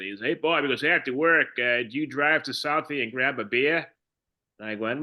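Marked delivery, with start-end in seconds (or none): 0.2-0.6 lightly mocking a Boston accent; hint of a put-on Boston accent; mocked Boston accent. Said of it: "he was making fun of my accent". 0.8-3.9 coworker's teasing Boston accent, lightly put on; a touch of mock Boston accent. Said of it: "he was making fun of my accent".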